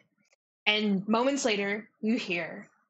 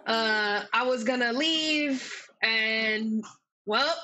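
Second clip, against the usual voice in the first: put-on Boston accent. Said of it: "Great Boston accent".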